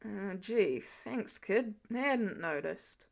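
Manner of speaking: put-on injured archer grumbling at the kid. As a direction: drag out the sarcasm, groggy. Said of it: "he grumbled".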